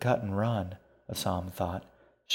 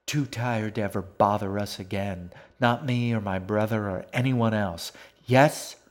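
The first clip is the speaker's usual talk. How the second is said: battering voice; 4 dB louder than usual. Acted. G pounds the fox with her voice, building loud. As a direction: hammer the fox with words, up to the last yes. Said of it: "She battered at the animal with her voice".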